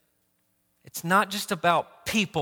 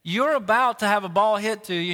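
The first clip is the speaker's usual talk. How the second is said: mild coach's yell, pitched up at the start; retold dugout yell. Coach calling to his goofing shortstop, mock yell. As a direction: call a warning out to a distracted player. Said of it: "I yell from the dugout".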